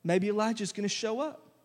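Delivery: a hint of casual, curious anticipation; intrigued bystanders. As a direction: play a hopeful spectator, ending on a rise. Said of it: "So they're like".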